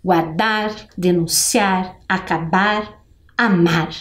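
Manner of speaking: low, measured word-by-word recital; reciting rhyming words. Shown as a demonstration. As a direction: recite the list for pupils to join in. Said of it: "Vamos falar todas juntas?".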